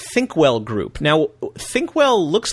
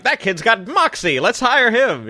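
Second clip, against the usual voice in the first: put-on old Hollywood studio boss; 5 semitones higher, slower than usual. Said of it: "the old Hollywood movie studio thing".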